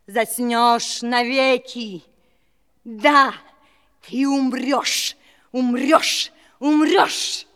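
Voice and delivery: building curse. Acted. Fairy's curse rises to climax.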